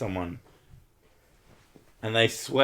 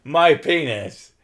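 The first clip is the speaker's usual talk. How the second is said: silly joke voice; 5 semitones higher, 8 dB louder, slower than usual. Retold or imitated. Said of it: "as a joke, I went".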